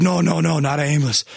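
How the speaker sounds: imitating a pained, groaning refusal; grunting and groaning. Homeless man refusing an ambulance, imitated pained groaning. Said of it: "almost grunting and groaning, like, his words".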